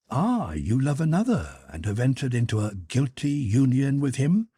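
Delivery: mock Karenin's pompous accusation; lightly voiced stern husband with stress on guilty; mimicking her husband. A narrator's reading. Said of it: "Mimicking her husband, she laid just such a stress on the word guilty".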